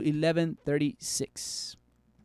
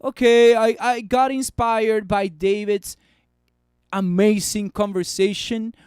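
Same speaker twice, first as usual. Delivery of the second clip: hoped-for shoutout; 5 dB louder than usual. Retold or imitated. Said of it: "At least say".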